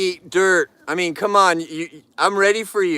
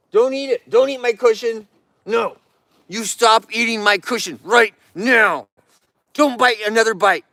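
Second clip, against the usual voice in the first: high, loud stern scolding; firm scolding; 6 semitones higher, 4 dB louder than usual. Real, not acted. Owner scolding a bear chewing her cushion, loud and firm. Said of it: "See, talking firm with a bear".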